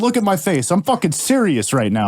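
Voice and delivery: hammed-up tough talk; mock indignant New Yorker. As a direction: pretend to demand respect, New York style. Continues acted New York confrontation.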